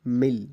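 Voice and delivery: مل said loud with a short clipped i; demonstrating pronunciation. Shown as a demonstration. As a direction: model مل clearly and firmly. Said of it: "اسی طرح". (مل کا واضح تلفظ)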